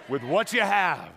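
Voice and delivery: congregation shouting along; call and response. Shown as a demonstration. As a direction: lead the crowd to shout it back. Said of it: "Come on, everybody in the house".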